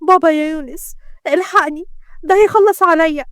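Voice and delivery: mild scream of alarm, building at the end; acted panicked cry. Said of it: "شمس صرخت بقوة".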